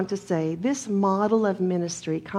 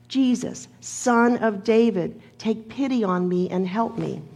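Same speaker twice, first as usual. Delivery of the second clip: calling out; 2 semitones higher, 3 dB louder than usual. Retold or imitated. Blind beggar to Jesus in the passing crowd, calling out. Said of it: "he called out in a loud voice".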